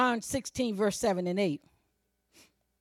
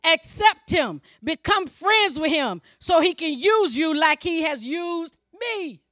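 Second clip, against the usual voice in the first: rising, forceful pulpit exhortation; emphatic preaching; 4 semitones higher, 6 dB louder than usual. Acted. Preacher urging believers to receive the Spirit, emphatic preaching. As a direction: urge them phrase by phrase. Preacher urges congregation as Jesus.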